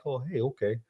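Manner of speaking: imitating a placid, dopey character, softly; a mild, unbothered okay, played dopey; even-keeled, dopey. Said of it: "He's just this even keeled, dopey face".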